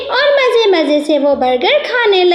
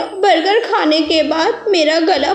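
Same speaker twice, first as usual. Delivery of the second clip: put-on higher childlike voice of a little girl with a sore throat; a small girl whining to her mother, pitched higher; sick little girl; 4 semitones higher than usual.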